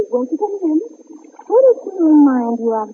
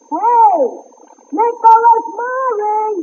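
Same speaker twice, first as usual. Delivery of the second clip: calling out; 8 semitones higher, 4 dB louder, much slower than usual. Acted. Calling for the butler.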